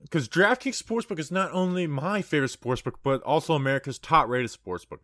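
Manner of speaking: upbeat podcast ad read; hyped betting ad. Acted. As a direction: sell it like a sponsor spot. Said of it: "You crushed that ad read".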